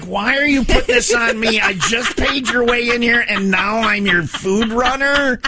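high-pitched mock outrage, slowing at the ends; indignant stranger. Stranger who paid her way in complains he is her food runner, high mock outrage. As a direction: play the put-upon stranger, voice pushed up high.

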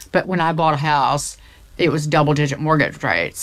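a hint of a Southern accent, fast. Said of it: "I'm gonna do the Southern accent".

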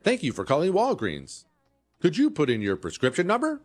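a hint of the automated pharmacy greeter; automated phone system. Pharmacy phone system greets a caller, lightly imitated robot operator. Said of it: "we've all had to deal with automated phone systems".

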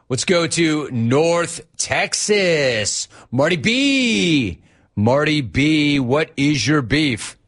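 slow drawn-out caller intro; radio host intro. Acted. Host introducing the next caller, slow and showy. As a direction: stretch it out like an announcer.

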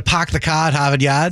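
put-on dropped-r Boston accent; playful New England Boston twang. Imitating Boston accent just discussed.

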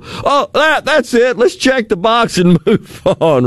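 high-pitched mock dismissiveness; not-my-problem people. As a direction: imitate someone brushing it off, laughing through it. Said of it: "You know what this sounds like?".

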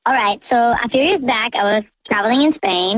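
disguised voice; voice changer. Real, not acted. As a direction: caller through voice changer. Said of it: "The voice changer is on".

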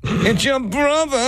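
high scolding mom voice, slowing down. Retold or imitated. Mom's high scold defending the dog. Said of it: "she was like".

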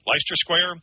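Leicester back to LY-ster; trying a pronunciation. Real, not acted. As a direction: try Leicester with a long i, as LY-ster. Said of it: "is it Leicester Square".

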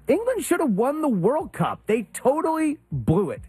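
high-pitched, insistent protest; emphatic hot take. Acted. Sports host protesting England's World Cup loss, emphatic hot take. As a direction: declare it as an indignant fan.

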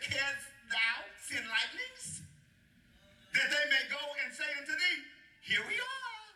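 very slow, high, stretched-out challenge; savoured, theatrical declaiming; relished scripture reading. Acted. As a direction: draw it out as God, soaring on the last words. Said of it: "I'm gonna read it again just 'cause I like it".

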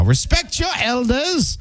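put-on high, slow scolding old-timer; hammed-up elderly lecture; old person voice. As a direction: wag a finger like a stern grandma, pitched high. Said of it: "I just am doing my old person voice".

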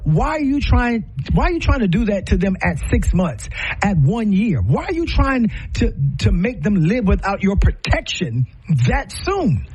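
real passion boiling over; pressing the question, worked up; getting heated. Real, not acted. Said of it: "let me calm down 'cause I got hot".

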